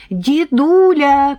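put-on high, slow, sing-song little girl; chirping girl. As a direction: chirp it sweetly like a child. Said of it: "прощебетала близняшка Таня". (щебечет высоким детским голоском)

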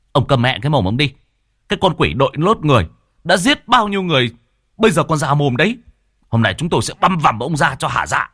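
furious shout. Acted. Angry villager shouts down Hồng, fast and furious. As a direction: tear into him with hatred.

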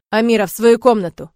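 loud, curt command. Acted. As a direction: order her to her room, loud. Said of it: "командует он". (отец приказывает дочери, громко и резко)

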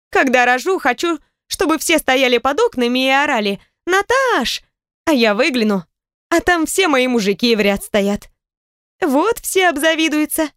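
stepmother voice. A narrator's reading.

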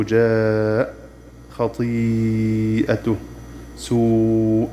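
جاء, خطيئته, سوء each with a long held madd before the hamza; drawn-out recitation. Shown as a demonstration. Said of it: "أمثلته". (تلاوة مع مد متصل طويل)

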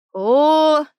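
drawn-out chorus "oh". A narrator's reading. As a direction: stretch it out like an impressed group. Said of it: "протянули все разом". (протяжное дружное «о!»)

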